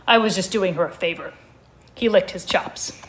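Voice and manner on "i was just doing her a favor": muffled voice. Acted. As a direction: speak muffled, as through fur. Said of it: "said in sort of a muffled way".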